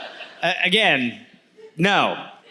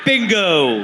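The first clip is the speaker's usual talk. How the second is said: ordinary talk, nothing marked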